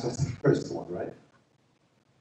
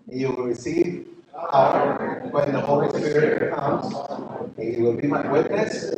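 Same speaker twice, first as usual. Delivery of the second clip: recited verse; 4 dB louder than usual. Shown as a demonstration. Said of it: "can we say that by memory now".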